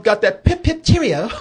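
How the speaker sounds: a lightly posh British "pip, pip, cheerio"; mock posh British accent. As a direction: toss off a mock upper-class British phrase. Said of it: "them wiggers over there in Britain".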